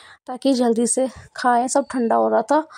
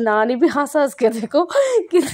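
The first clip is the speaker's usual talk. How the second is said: laughing while talking; 2 semitones higher than usual. Real, not acted. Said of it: "मुझे खुद बोलते हुए इतनी हंसी आ रही है".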